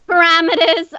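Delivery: "Parameters" as puh-RAM-uh-tuhz, stress on RAM; attempted American pronunciation. Shown as a demonstration. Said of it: "what, what did we just say?".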